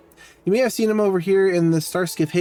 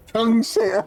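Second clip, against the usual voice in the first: "Chengqing" said higher through a laugh; high, laughing "Chengqing" then slow "Oh my god"; laughing repeat; 7 semitones higher than usual. Real, not acted. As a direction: crack up while saying "Chengqing" again.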